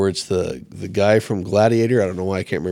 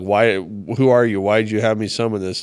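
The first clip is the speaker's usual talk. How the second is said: retold freak-out; 4 dB louder than usual. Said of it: "freaking out on Saul".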